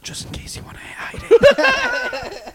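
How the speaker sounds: very high, slow put-on teasing; teasing mock helpfulness. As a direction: draw it out in a high, laughing tease. Server teasing embarrassed customer.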